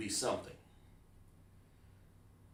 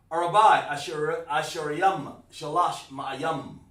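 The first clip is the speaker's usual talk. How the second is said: 1 slow careful repeat; 2 semitones higher, 6 dB louder than usual. Shown as a demonstration. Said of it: "That's what you're saying".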